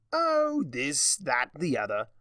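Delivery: Discord voice. Acted. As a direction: savour each word like a smug trickster. Discord answers Twilight airily.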